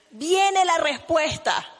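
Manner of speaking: slow ringing proclamation; proclaiming shout. Real, not acted. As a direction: call it out to the whole congregation. Preacher proclaiming to congregation.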